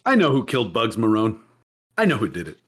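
low, dying-informant voice; hammed-up low final confession; mock deathbed confession. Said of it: "family member deathbed confession".

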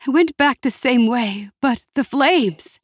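put-on frightened older woman; frightened mother. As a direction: voice full of dread. Mother trapped by fire.

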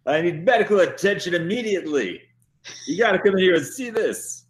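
mock urgent demand. Prisoner acts urgency to guard.

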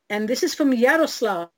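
lightly put-on Slavic accent. Shown as a demonstration. Host announcing a listener's question, light put-on Slavic accent. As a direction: give the name a hint of a Slavic accent. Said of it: "I said it in that accent".

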